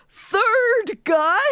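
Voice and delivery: high excited squeal; all caps shout. Retold or imitated. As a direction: squeal it like a fangirl. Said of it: "says in all caps".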